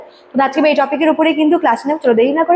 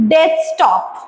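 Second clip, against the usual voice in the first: "death stop" as two equally strong beats; both syllables strong. Shown as a demonstration. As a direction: put powerful, equal stress on "death" and "stop". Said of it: "দুটোই কিন্তু স্ট্রংভাবে".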